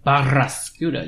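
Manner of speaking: Barraskewda said with a rolled Spanish R; Spanish accent. Retold or imitated. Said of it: "thought you were doing a Spanish accent".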